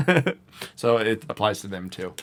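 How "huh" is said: loud, high, hammed-up Italian; mock-offended Italian relative, pitched way up; stereotype Italian accent. Imitating relatives offended at being called French, Italian accent. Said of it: "they'd be like".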